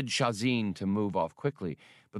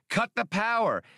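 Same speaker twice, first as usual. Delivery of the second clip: panicked shouting; 9 semitones higher than usual. A narrator's reading. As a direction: shout it out in a rush. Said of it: "shouted Han".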